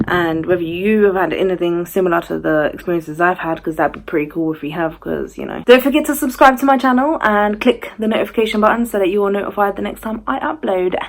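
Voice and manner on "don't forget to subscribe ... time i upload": higher-pitched presenter outro at the start; rehearsed-style subscribe reminder; vlog subscribe plug. Real, not acted. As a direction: lift it into a channel sign-off. Subscribe request to viewers.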